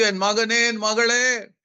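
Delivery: lifted, unhurried promise to a suffering listener; God speaking tenderly. Acted. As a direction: speak as a loving God who never forgets. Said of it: "God may be telling you".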